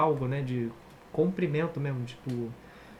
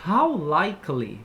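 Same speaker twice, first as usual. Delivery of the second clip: slow demo; slower than usual. Shown as a demonstration. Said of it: "quando a gente pergunta".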